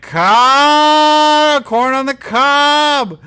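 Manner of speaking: high, loud, slow hammed-up cry; silly high shout. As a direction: stretch it out like a goofy announcer. Spock voiced shouting a silly line.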